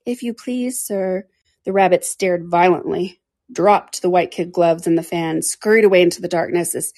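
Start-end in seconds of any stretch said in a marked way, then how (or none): 0.0-1.3 soft, shy request; timid little girl asking a stranger for help. A narrator's reading. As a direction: ask meekly, barely daring. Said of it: "in a low, timid voice".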